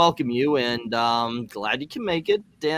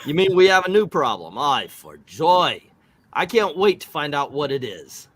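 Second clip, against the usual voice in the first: sarcastic; 4 dB louder than usual. Acted. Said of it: "the famous American sarcasm".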